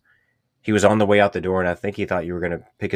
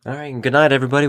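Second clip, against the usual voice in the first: loud, higher joking farewell; mock sign-off; 7 semitones higher, 6 dB louder, faster than usual. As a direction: pretend to wrap up the show brightly. Joke sign-off, then "I'm kidding.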